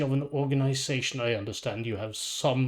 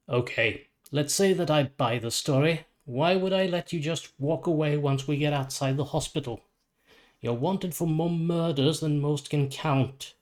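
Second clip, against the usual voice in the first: firm, slightly raised challenge; stern lawman; 3 semitones higher than usual. Acted. Lawbringer challenges the psychopomp.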